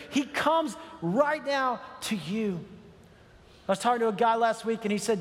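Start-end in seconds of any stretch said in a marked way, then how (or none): 0.1-2.6 slow emphatic shout. Real, not acted. Preacher drives point home.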